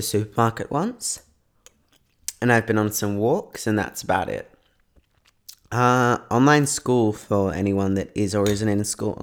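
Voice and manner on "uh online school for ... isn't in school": talking through a mouthful of cereal; words round a bite of cereal; chewing while talking. Real, not acted. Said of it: "trying to eat my cereal".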